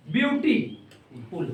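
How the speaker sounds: ब्यूटीफुल slowly, as ब्यूटी, pause, फुल; two-part demonstration. Shown as a demonstration. Teacher demonstrating sound in two goes, ब्यूटीफुल slowly split. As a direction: break ब्यूटीफुल into two unhurried parts. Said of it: "दो बार में पूरा रूप धारण".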